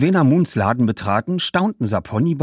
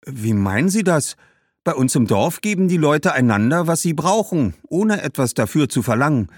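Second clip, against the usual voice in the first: put-on higher, naive girl's voice; puzzled young girl; 5 semitones higher than usual. Girl explaining village sharing to the shoemaker, puzzled. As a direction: explain it as an innocent child would.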